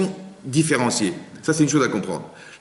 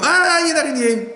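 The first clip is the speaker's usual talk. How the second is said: calm statement demo. Shown as a demonstration. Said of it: "pourquoi on dit pas".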